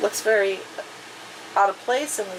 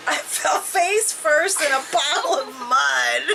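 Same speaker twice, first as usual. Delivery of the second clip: laughing while reading; 3 semitones higher than usual. Real, not acted. Reader cracks up at the mud fall, laughing. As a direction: laugh breaking into the narration.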